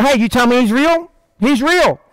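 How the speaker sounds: lightly voiced believing child; a child taking a parent at their word; trusting kid. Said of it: "No, they go".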